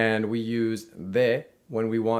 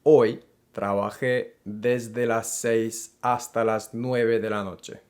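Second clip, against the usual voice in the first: slow, deliberate Spanish with weight on desde; emphasized desde sentence; slower than usual. Shown as a demonstration. Teacher models the longer workday to learners, slow and stressed. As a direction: lean into the longer hours. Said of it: "Here I'm emphasizing the fact that".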